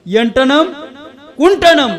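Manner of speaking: loud, high pseudo-Sanskrit, word by word; mock Sanskrit. Preacher replays the son's phone question for the audience, loud mock Sanskrit. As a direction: ring out each word with a pause between. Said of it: "बघा, संस्कृत कळतंय का?".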